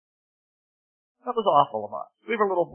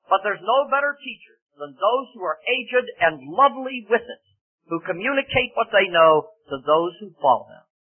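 emphatic preaching; 6 semitones higher, 6 dB louder than usual. Real, not acted. Preaches on aged teachers.

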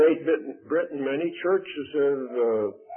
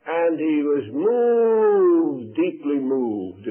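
choked up; much slower than usual. Real, not acted. Preacher moved by the story.

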